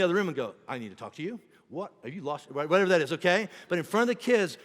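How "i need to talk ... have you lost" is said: hushed marital rebuke. Retold or imitated. Parents argue out of kids' earshot.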